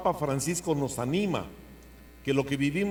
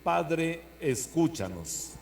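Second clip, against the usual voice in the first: liturgical response; 4 semitones higher, much slower than usual. Acted. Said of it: "digamos juntos".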